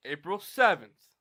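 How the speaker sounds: loud, slow announcement; yelling. Real, not acted. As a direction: shout the date out slowly. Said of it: "Why are you yelling?".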